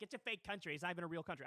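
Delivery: lightly voiced Trump accent; hint of a Trump impression; mock Trump accent. Host quoting Putin's claim about Ukraine, accidental Trump accent. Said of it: "I just gave Putin the Trump accent".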